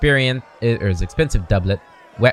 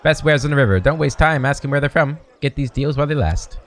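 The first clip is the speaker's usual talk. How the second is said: higher, pushy market-stall patter; hawking merchant; 4 semitones higher than usual. Acted. River trader calls out to customers, pushy hawking. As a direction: sell hard to passers-by.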